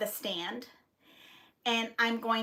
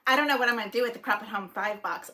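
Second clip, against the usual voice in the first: normal talking voice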